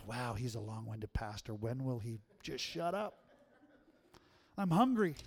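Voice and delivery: mock a hungry listener's complaint; bored congregant. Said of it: "Or are you like".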